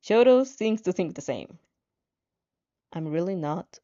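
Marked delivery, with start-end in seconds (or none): 2.9-3.8 blunt. Acted. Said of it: "he says bluntly".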